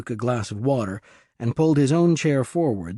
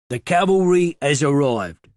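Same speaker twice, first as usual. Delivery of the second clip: put-on cheery East London accent, called out a bit louder; 4 semitones higher, 6 dB louder than usual. A narrator's reading. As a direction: East London voice announcing from the van window. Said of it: "in an East London accent".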